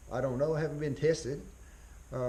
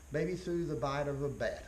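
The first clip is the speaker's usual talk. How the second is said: "maybe" leaned on at the start of the phrase; stress on maybe. Shown as a demonstration. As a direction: hit the word "maybe" to show doubt. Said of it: "I need to emphasize the word maybe".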